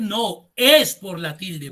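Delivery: slow, deliberate correction on "es por la tilde"; teacher setting the answer straight; corrective stress. Shown as a demonstration. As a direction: stress "es" firmly, as in "it IS the accent". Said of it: "puede ser".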